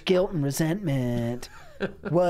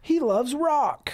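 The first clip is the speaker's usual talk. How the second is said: spirit voice; 9 semitones higher, slower than usual. Pretend. Voicing the butt spirit.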